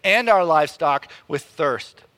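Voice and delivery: loud, accusing complaint; grumbling. Acted. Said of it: "they grumbled against Moses and said".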